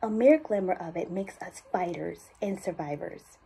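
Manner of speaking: understated urgency in a measured voiceover; serious, focused appeal for a cancer institute; urgent ad read. Acted. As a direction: drive gentle tension through the commercial copy. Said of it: "I felt that urgency".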